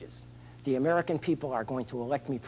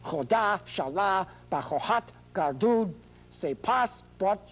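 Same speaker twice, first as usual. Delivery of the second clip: slow, chanted mock Farsi oration; hammed-up Farsi speech; slower than usual. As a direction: declaim it slowly like a grand address. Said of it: "I'm gonna read this Farsi to you".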